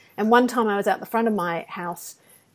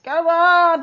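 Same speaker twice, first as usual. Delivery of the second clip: imitated bus beep; 6 semitones higher, 6 dB louder than usual. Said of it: "beep at me like".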